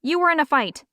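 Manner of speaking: high, hurried blurt; words escaping before she can stop; nervous blurting out. A narrator's reading. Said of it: "Fiona blurted out".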